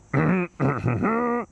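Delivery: a quick throat clear. Acted. Mary clearing her throat before reading. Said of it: "She cleared her throat".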